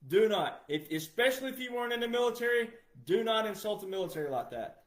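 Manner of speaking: ordinary talk, nothing marked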